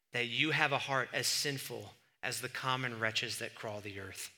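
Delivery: lightly voiced haughty British duchess; a mild British accent, disdainful. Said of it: "in British accent".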